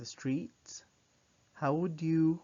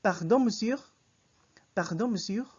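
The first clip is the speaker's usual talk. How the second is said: high, loud, rising polite call in French; getting attention; 8 semitones higher, 8 dB louder than usual. Shown as a demonstration. Teacher shows how to stop a man in the street, calling out. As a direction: call out to a passer-by, pitched up and projected. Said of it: "That's how you get attention".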